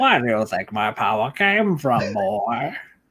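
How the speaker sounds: very low, put-on cartoon villain voice. Voicing a dead villain in a scene, as a Skeletor impression. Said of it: "doing a Skeletor impression".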